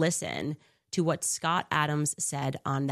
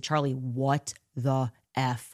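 mock disbelief; 3 semitones lower, slower than usual. Texting friend in shock.

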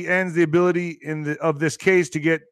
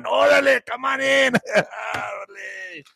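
laughing mock officer; 5 semitones higher than usual.

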